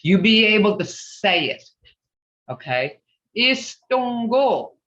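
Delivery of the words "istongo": Istongo said slowly, syllables apart; teacher modelling Istongo slowly; slow model word. Shown as a demonstration. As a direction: break Istongo into its sounds. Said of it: "how these sounds are being broke up".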